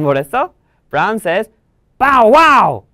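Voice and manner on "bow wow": loud, high woof; barking dog. Acted. Brown the dog answering Jenny with a loud bark. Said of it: "barks Brown".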